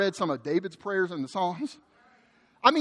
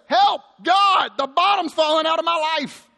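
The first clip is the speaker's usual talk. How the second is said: loud, high cry for help; desperate plea; 6 semitones higher, 4 dB louder than usual. Acted. Preacher reads verse one as a cry for help, loud and desperate. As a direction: call out to God as life collapses. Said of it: "translates verse one like this".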